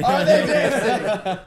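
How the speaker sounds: very loud, high, drawn-out shout; escalating mock yell. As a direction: bellow it slowly at full volume. Mock Suge repeats demand, escalating.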